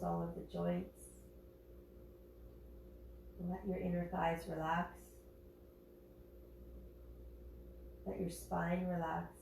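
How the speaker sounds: calm, even guiding voice with long pauses between phrases; guided yoga meditation. Real, not acted. Yoga teacher guiding class to connect with breath, calm meditative voice. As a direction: settle listeners gently, leaving space to breathe.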